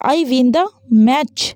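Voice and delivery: very slow exclamation, tune falling at the end. Shown as a demonstration. Teacher showing students an exclamation, very slow and falling. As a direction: spell out a triumphant line with a falling tune. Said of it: "falling intonation का use करोगे".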